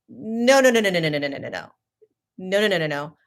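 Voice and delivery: rapid string of no, no; heated flurry of denials; rapid protest. Retold or imitated. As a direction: fire off the nos, insisting. Arguing about the bet.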